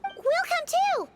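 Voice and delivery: high, drawn-out eager chime-in; slow, high-pitched keen offer; eager insistence. Acted. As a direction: pipe up high, determined to tag along. Insists on joining the urgent errand.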